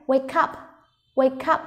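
"wake up" with the k carried into "up"; linked sounds. Shown as a demonstration. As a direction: run "wake" into "up" so it sounds like "way-cup". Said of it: "chỗ này chúng ta thấy có nối âm này". (nối âm k trong "wake up")

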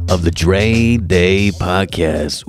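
slow, smooth radio host voice. Shown as a demonstration. Host showing off his radio voice. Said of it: "listen to that voice, baby".

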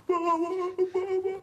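mock cry of dad. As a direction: ham up the young man's cry of baba. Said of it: "خودشو انداخته تو بغل من". (تقلید فریاد «بابا» با صدای خیلی زیر و بلند)

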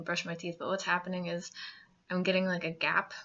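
talking around a finger; finger resting on lips. Real, not acted. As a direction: fingertip pressed to lip. Seen 0: finger rests on lower lip while talking, gone by 4.5.

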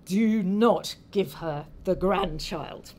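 slow, deliberate command; stern warning. Acted. Son-in-law warns his wife about the grandchild, stern warning. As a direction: spell out the warning word by word, slowly.

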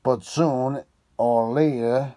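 a keen detective thinking aloud; Holmes voice. Acted. Holmes speech held loud.

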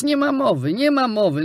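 high, loud repeated refusal; a priest's mild outraged shout. A narrator's reading. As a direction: cry out no way twice. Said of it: "krzyknął ksiądz".

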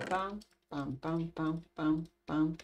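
quiet, rhythmic pam-pam; muted run of little pams; soft "pam" sound effects. Real, not acted. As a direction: softly mark each action with a pam. Voicing own actions in game.

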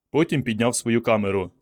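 plain reading voice

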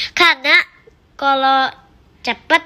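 proud riddle answer; punchline. Real, not acted. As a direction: land the joke triumphantly. Kid delivers riddle punchline.

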